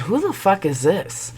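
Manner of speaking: high, restrained confrontation; indignant demand. Retold or imitated. Wife calling the texter back, indignant. Wife calls unknown number, retold.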